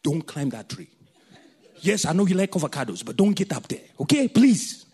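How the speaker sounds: a hint of a strict Kenyan elder; lightly put-on African accent. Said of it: "I'm gonna put my full African accent".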